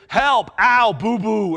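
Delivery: loud, high mock wail; hurt child. Kids with a boo-boo calling for help, mock wail. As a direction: cry out like a little kid wanting comfort. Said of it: "if it's your kids".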